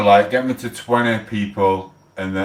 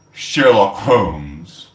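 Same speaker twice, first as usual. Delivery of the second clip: mock announcement; 3 semitones lower, 4 dB louder, much slower than usual. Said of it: "they came up and went".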